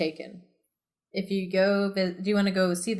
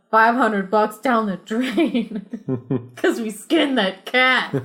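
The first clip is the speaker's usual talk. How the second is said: laughing; 3 semitones higher, 5 dB louder, much slower than usual. Acted. Jack laments, laughing.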